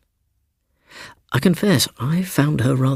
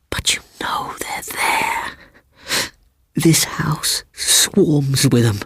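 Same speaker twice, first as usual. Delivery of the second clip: slow spooky whisper; slow eerie whisper; 6 semitones higher, slower than usual. A narrator's reading. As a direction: draw it out, hushed and eerie. Seaton whispering ghosts.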